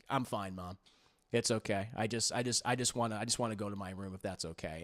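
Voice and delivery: soft, withdrawn daughter muttering. Retold or imitated. Grieving daughter brushing off her worried mom, quietly. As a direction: pull inward and keep her voice small.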